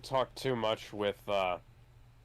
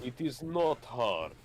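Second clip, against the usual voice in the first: mock Russian accent; 2 semitones higher than usual. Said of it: "better Russian accent".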